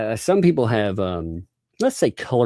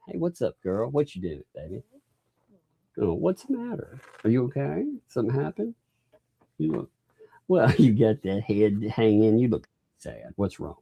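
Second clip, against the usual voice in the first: gentle comforting; 3 semitones higher, 4 dB quieter than usual. Real, not acted. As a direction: coax her gently out of her sadness. Dad comforting sad little daughter.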